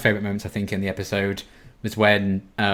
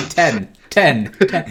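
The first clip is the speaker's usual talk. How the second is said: mock judges scoring; 5 semitones higher, 5 dB louder, much slower than usual. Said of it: "minions going like".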